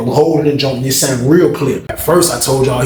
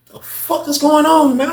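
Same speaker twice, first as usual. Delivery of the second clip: much higher, slow and stunned; slow disbelief; slower than usual. Retold or imitated. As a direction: drag out the disbelief. Back in the building.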